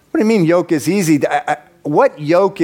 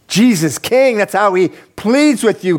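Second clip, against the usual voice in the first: preaching burst; 5 semitones higher than usual. Real, not acted. Bursts back loud after whisper.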